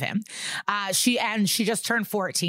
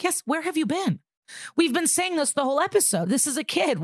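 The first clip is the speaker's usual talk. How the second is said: exasperated; 9 semitones higher than usual. Real, not acted. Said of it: "exasperated at the character".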